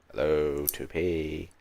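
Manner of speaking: calling out. Real, not acted. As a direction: call out for an absent teammate, stretching each hello. Calling an unresponsive teammate.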